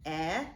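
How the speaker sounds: E as a short "eh"; E sounded as "eh", set apart; isolated short vowel. Shown as a demonstration. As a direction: say E as in "tempo", not "ee". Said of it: "I hear an E sound".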